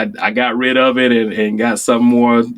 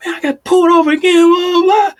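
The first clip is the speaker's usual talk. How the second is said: fast, much higher, louder rant about getting stopped again; exasperated retelling; 3 dB louder, faster than usual. Retold or imitated. Telling his coworker about another traffic stop, fast and exasperated. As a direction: blurt it out, fed up and breathless. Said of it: "I was like".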